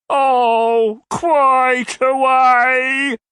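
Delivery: high, very slow, swooning; languishing suitor. A narrator's reading. Old gentleman languishing at Mrs Nickleby. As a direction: sigh the words out lovesick.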